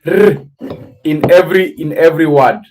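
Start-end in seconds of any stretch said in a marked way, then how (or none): 0.1-0.4 a trilled R sound standing alone; rolled R. Shown as a demonstration. Mimicking South Indian English for a listener, R heavily rolled. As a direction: roll the R as a long trill. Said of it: "Like they are putting R".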